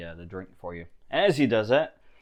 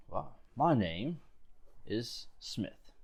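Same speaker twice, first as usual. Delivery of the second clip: slow, softer, trailing into breath; slow hushed intro; 2 semitones higher, 8 dB quieter, much slower than usual. Acted. Guard Smith naming himself to the stranger, slow and hushed. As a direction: let the name fade out.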